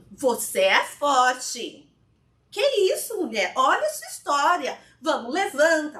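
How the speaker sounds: firm and loud, building herself up; loud self pep talk. Acted. Therapist's chair, talking to her crying self, loud encouragement. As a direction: shake yourself awake, forcefully.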